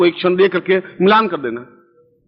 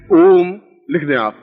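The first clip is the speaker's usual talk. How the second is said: slow dictation; slower than usual. Shown as a demonstration. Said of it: "मंत्र में एक बार उच्चारण करूंगा".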